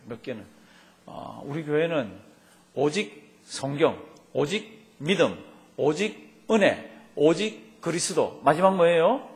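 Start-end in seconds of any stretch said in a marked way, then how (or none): 2.7-8.4 천천히 따라 읽기. Shown as a demonstration. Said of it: "다시 한번 해볼까요?".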